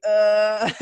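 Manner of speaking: grunted, put-on uneasy "uh"; uneasy groan. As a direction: imitate getting tense and bothered. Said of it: "I get a little like".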